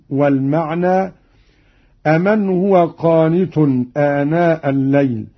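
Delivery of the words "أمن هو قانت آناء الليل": أمن as "aman", single m; no doubling on the m of أمن; lightened meem. Shown as a demonstration. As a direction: recite أمن with a short m. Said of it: "بتخفيف الميم".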